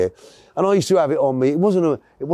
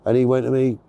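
normal talking voice

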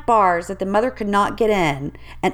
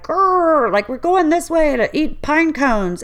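growling mother bear; 6 semitones higher, slower than usual. Retold or imitated. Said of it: "the mother bear is like".

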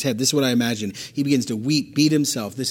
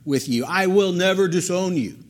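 high-pitched, emphatic vow; emphatic insistence; 5 semitones higher than usual. Acted. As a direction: insist with raised pitch, leaning on the key words. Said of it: "insisted emphatically".

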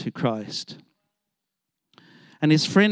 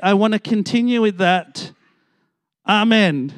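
earnest prayer; 6 semitones higher, 5 dB louder than usual. Retold or imitated. Boy's repentant prayer retold.

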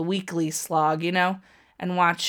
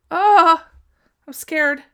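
tense outcry; 9 semitones higher, 10 dB louder, slower than usual. Real, not acted. Tense moment in the match.

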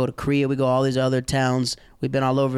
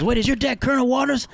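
put-on girlfriend's dad realizing who his dad is, surprised; surprised realization; 11 semitones higher than usual.

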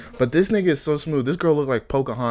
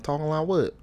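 put-on innocent question in a country accent; 5 semitones higher than usual. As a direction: play dumb with a country twang. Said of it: "talk in a country accent".

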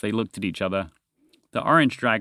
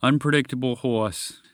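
a different voice calling from behind; dragon voice. Acted. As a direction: greet him as the old dragon. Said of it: "came a voice from behind him".

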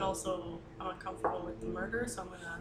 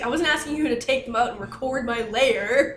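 annoyed NPC voice; 4 semitones higher, 9 dB louder than usual. Retold or imitated. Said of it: "he's like".

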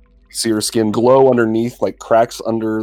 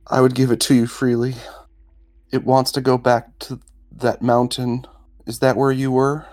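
higher-pitched, earnest character voice; adventurer offering a gift; 5 semitones higher than usual. Acted. Adventurer offers the stone to the dragon, higher, measured.

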